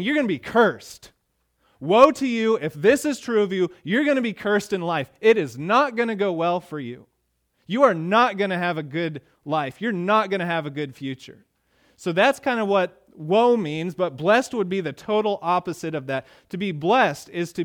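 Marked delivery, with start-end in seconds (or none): 0.0-11.5 loud and high, pressing each line; preacher driving home the meaning of woe; fervent warning. Acted. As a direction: preach the curse with urgency. Spells out the curse.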